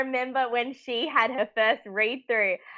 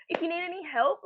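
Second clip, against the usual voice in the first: imitating Tim; 8 semitones higher, 5 dB quieter than usual. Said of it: "and he goes".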